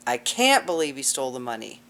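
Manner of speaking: "can't" stressed clearly. Shown as a demonstration. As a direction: punch the word "can't". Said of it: "everybody emphasizing a different word".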